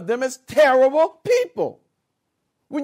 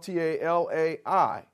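spelling out letters; 5 semitones lower, 3 dB quieter than usual. Shown as a demonstration. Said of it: "It's spelled".

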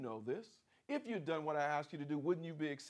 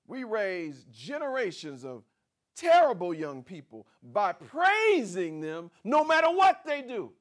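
louder, higher preacher's push; full-force preaching; 6 semitones higher, 8 dB louder than usual. Acted. Preacher rebuking praise for mess, loud and rising.

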